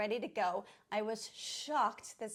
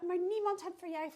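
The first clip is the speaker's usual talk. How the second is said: sing-songy voice; 8 semitones higher than usual. Retold or imitated. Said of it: "she's talking in a sing-songy voice at the dog".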